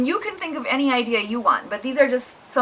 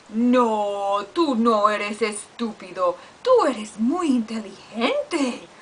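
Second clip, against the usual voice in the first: comforting dog; slower than usual. Acted. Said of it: "we would sound like this".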